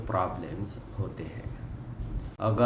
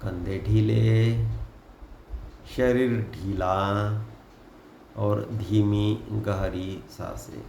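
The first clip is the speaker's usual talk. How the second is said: guided meditation. Acted. Guide asking listeners to close eyes and breathe deeply, in an unhurried meditation voice. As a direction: lead them gently into relaxation, phrase by phrase.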